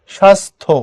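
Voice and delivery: "স্বাস্থ্য" split as shas-tho; সঠিক উচ্চারণ. Shown as a demonstration. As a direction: separate a clear tho in "স্বাস্থ্য". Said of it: "এটা থ". ("স্বাস্থ্য" ভেঙে, শাস্-থো)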